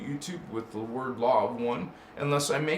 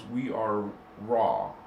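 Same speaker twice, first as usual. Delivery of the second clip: slow, low intoning of the name; a hint of a deep channelled entity; Raw's self-introduction; 6 semitones lower, slower than usual. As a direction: announce yourself like a solemn cosmic being. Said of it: "that's the way they talk".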